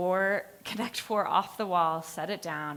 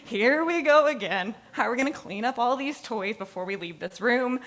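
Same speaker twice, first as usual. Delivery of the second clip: frazzled inner voice; 3 semitones higher, 4 dB louder than usual. Retold or imitated. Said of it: "I was like".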